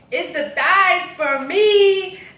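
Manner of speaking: drawn-out loud hollering. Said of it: "she just kept saying".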